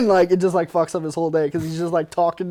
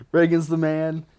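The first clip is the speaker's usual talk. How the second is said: fired up; 2 semitones higher than usual. Retold or imitated. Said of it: "you get fired up".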